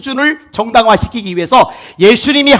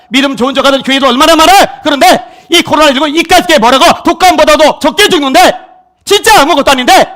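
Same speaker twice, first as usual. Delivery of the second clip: raised, loud pulpit delivery; fiery preaching; 6 semitones higher, 6 dB louder than usual. Acted. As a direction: drive it home to the congregation. Preaches at full force.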